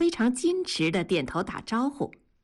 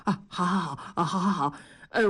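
hurried agreeing; 3 semitones lower, faster than usual. A narrator's reading. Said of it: "一个劲儿地点头说".

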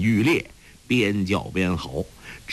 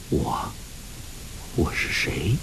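softer, lost, hesitant self-question; talking to himself; 7 semitones lower, 5 dB quieter than usual. A narrator's reading. Guo Jing asks himself who he is, softly dazed. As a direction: murmur it inward, dazed. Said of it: "自言自语".

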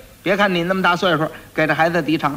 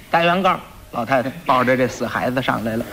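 normal talking voice

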